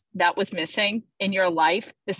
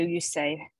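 usual speaking voice

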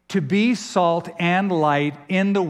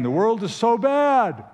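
higher-pitched mock complaint; complaining; 6 semitones higher than usual. Preacher voices churchgoers grumbling about the world, complaining. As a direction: mimic a moaning complainer. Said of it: "So we often complain".

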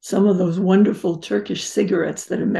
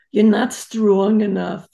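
lightly imitated European mother's accent; a controlling mother in European accent; 4 dB louder than usual. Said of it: "I'm gonna do it in her accent".

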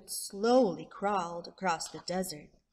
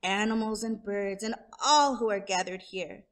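proud speech; 2 semitones higher than usual. Acted. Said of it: "eyes blazed with pride as he said".

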